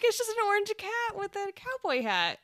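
high, loud through laughter; laughing. Retold or imitated. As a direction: giggle the line out. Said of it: "They were like".

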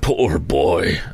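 slow, understated pity; a touch of sorrow for the boy. Acted. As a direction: say it with mild, tender regret. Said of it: "in pity for his former self".

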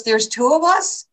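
high-pitched imitated astonishment; mock incredulous. Muhammad Ali hearing her boast, mock incredulous. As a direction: ask it in comic disbelief.

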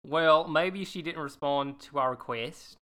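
put-on lightly done Australian accent as Gemma. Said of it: "let me get into my Australian accent".

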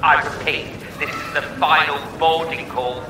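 airport announcement. Pretend. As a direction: play the gate announcer calling a late passenger. Mock airport call for the guest.

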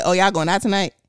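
"out" in Houston pronunciation. Retold or imitated. Woman quoting herself to show her Houston "out", regional pronunciation. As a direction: say "out" the local Houston way, not standard. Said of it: "And I said, "Out" instead of "out".

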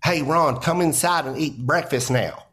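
put-on a light Southern American mom accent calling her son in to breakfast. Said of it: "Ron White doing an accent about his mom".

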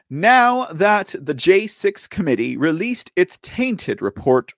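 light Trump-style slow read; unintentionally slipping into a Trump cadence; slow, deliberate mock-presidential read. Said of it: "why am I reading it like it's President Trump".

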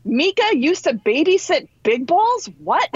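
imitating the instructor's astonishment; mock disbelief. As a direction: instructor stunned mid-class. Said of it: "And Jen's like".

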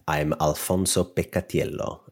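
his own name in an Italian accent, Picatiello said the Italian way. Shown as a demonstration. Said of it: "with my Italian accent".

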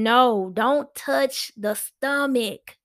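slow, firm no; firm refusal. Shown as a demonstration. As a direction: set the boundary slowly and firmly. Telling people not to touch.

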